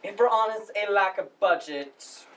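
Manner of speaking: formal, halting welcome speech; lightly pompous drama society director addressing the house; Chris. Acted. Drama society head welcomes audience to the spring production, formal speech. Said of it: "that was Chris's monologue from the play".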